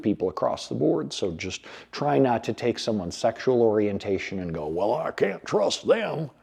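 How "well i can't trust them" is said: slow, higher redneck drawl, lightly put on; mock a prejudiced redneck in a light redneck accent. Mocking a prejudiced viewer in a light slow redneck accent. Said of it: "I used a redneck accent there".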